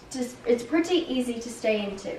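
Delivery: settled Irish-accented English. Shown as a demonstration. Child demonstrates for family, Irish accent. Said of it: "once you're into the Irish accent".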